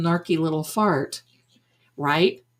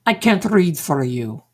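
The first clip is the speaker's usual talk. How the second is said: put-on Madame Blavatsky accent; mock psychic accent. Psychic refusing to read a customer, fake accent. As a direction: imitate the psychic's accent, falling away at the end. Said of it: "I have that Madame Blavatsky accent".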